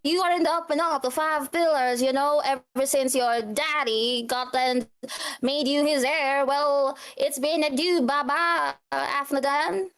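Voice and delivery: reproachful brother needling his sibling; a hint of a bitter half-brother; half-brother character.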